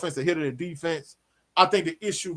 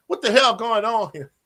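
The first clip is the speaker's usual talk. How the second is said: mad coworker rant; 6 semitones higher than usual. Retold or imitated. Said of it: "She was mad".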